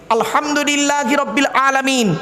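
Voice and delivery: "আলহামদুলিল্লাহি" with a throaty Arabic h; correct Quranic pronunciation. Shown as a demonstration. Preacher showing what we read in prayer, correct Quranic pronunciation. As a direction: recite carefully, h of "আলহামদুলিল্লাহি" from the throat. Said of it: "গলার ভেতর থেকে হে এটা উচ্চারণ করবেন".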